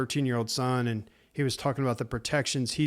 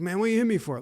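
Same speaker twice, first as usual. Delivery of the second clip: mock hurt guy; 7 semitones higher, faster than usual. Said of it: "He's like".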